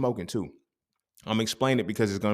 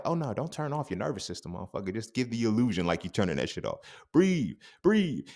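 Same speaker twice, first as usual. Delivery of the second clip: mocking voice; 3 semitones higher than usual. Voicing a mocking idea of calm.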